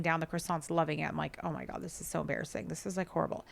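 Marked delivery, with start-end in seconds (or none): 1.4-3.4 embarrassed hush. Retold or imitated. Mortified by stolen croissants.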